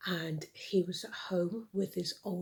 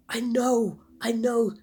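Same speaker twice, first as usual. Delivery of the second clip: put-on frantic boy; 4 semitones higher, 10 dB louder than usual. Cliff frantic.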